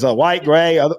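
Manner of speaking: imitating the clerk's Boston accent; light New England accent; retold clerk with Boston vowels. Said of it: "that's how he said it".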